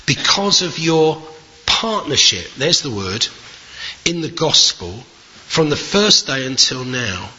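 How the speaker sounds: measured, deliberate Bible reading with weighted phrases; solemn public reading, slowing at the close; scripture reading. Acted. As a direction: read the epistle aloud to a congregation, pausing between phrases. Reads the letter aloud to congregation.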